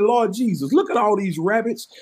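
high, loud mock astonishment; amazed at the rabbits. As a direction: exclaim it like a newcomer stunned by the sight. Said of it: "I said".

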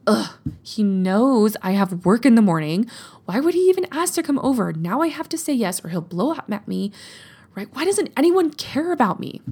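a put-upon, sulky rant, rushing the middle; whiny self-pity. Pretend. Client venting to herself about an unwanted visit, whiny and aggrieved. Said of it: "You say that instead of".

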